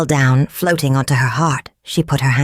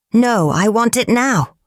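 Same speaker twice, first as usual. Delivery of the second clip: higher-pitched, mildly impatient insistence; 6 semitones higher than usual. Acted. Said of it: "snapped the soldier impatiently".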